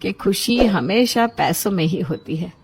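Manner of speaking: a hint of a relieved mother, warming up to her son; mother admitting she was wrong, gently at first, then brighter; lightly voiced mother. (बेटे से बात करती माँ, हल्की सी आवाज़ बदलकर)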